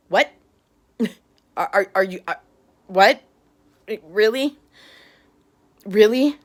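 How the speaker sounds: stunned disbelief, rising; can't believe what you're hearing; incredulous. Real, not acted. Reacting to shocking news.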